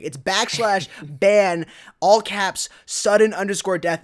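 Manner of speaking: slowly spelling the Twitter handle; spelled out slowly. Shown as a demonstration. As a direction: dictate the handle carefully. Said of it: "it's not hashtag".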